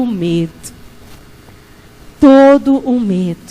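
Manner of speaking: hushed pastoral prayer call; prayer leading. Acted. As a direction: guide the congregation into prayer, slowly. Leads silent prayer.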